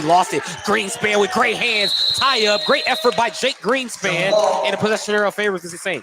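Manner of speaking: excited basketball call. Real, not acted. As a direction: call the tie-up with rising energy. Live play-by-play excitement.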